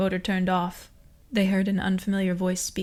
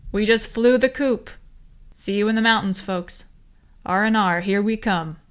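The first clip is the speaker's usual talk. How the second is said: cheering; 2 semitones higher, 6 dB louder than usual. A narrator's reading. Cheering on the comlink.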